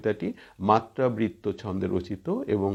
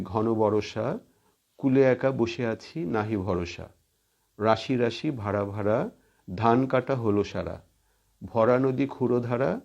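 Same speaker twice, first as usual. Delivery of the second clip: measured verse reading, a touch lifted; poem recitation; 2 semitones higher than usual. Acted. Teacher reading Sonar Tori to students, measured poem recitation. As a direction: recite it line by line, pausing between phrases.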